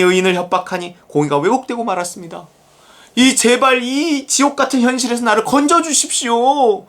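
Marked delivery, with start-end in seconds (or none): 3.1-6.8 higher, pleading cry for rescue; desperate plea. Retold or imitated. Preacher voicing Habakkuk crying to God, mild plea. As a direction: beg God to be pulled out. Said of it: "막 이러고 있다고요".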